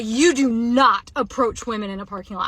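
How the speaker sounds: firm scolding, re-enacted; mild re-enacted yell; retold yelling. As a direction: retell a yelled warning with emphatic stress. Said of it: "like, yelling it".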